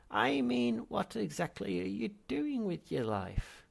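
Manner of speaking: put-on high, loud old man's contempt; exasperated ghost. Ancestor condemning Zaphod's life, loud. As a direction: sneer down at him.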